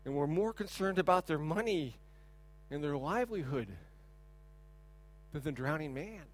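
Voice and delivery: sombre, hushed storytelling; hushed, grave. Real, not acted. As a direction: let the tragedy sink in, quietly. Tragic end of the story.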